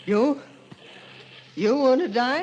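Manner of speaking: put-on can't believe the old man wants to die; shocked disbelief. Hears the stranger seeks death.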